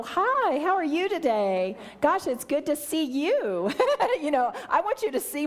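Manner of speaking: high, sing-song mock greeting; a gushing hello while flashing a new ring; showing off my ring. Newly engaged woman greeting a friend, hammed-up sing-song hello. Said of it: "I might go".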